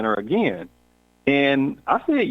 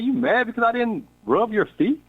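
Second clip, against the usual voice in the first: incredulous; 10 semitones higher than usual. Retold or imitated. Retold question to upset woman.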